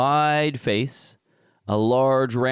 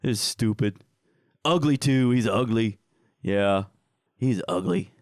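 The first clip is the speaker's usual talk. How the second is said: slow, higher sneering creature voice; 3 semitones higher, slower than usual. Acted. Creatures mocking the dead little troll, slow sneering creature voice. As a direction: drag out the insults with a sneer.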